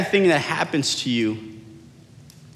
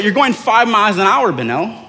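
raised-pitch exasperated scolding; retold freak-out; 5 semitones higher than usual. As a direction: play up disbelief at the driver. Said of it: "I start freaking out".

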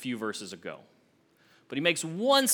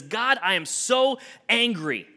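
voicing Jonah's pent-up anger, pushed higher; the floodgates burst, let it pour out; angry outburst; 6 semitones higher, 4 dB louder than usual. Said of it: "he can't hold in his anger anymore".

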